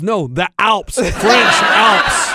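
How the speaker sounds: hammed-up correction, half laughing; mock exasperated correction. Party guest correcting a mishearing of the Alps, laughing mock shout. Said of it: "He goes".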